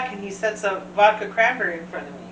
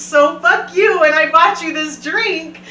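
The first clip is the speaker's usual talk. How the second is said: a bit louder, slow, mocking comeback; mock indignant retort; 5 semitones higher, 6 dB louder than usual. To the comedian, a slow mock indignant comeback. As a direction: throw his line back at him. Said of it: "mock retort".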